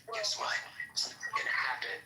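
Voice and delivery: breathy mock whisper; imitating a creepy whisper. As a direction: mimic a creepy hushed threat. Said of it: "creepy interview when he's whispering".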